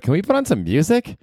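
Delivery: high whiny passenger begging for music; whiny bored passenger. Pretend. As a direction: beg the crew for music in a bored whine. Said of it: "I'd be like".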